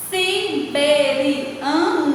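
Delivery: "Siberiano" slowly split si, be, ri, a, no; syllable by syllable. Shown as a demonstration. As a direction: stretch out each syllable of "Siberiano". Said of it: "Quantas sílabas nós temos aí?". ("Siberiano" devagar, sílaba por sílaba)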